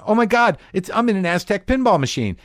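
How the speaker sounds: high loud awe; amazed tripping. Retold or imitated. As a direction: marvel as if hallucinating. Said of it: "close your eyes again".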